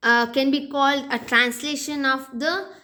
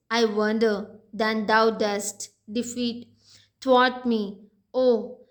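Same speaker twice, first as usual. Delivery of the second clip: measured, deliberate poetry recitation; poem reading. Shown as a demonstration. Teacher reading the sonnet aloud to the class, measured and deliberate. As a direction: read each line of the sonnet with care.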